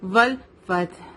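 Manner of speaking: slow والفتح with ح from mid throat. Shown as a demonstration. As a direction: end والفتح on a throaty breathed ح. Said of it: "middle throat سے آئے گی". (والفتح کی ہا حلق کے بیچ سے)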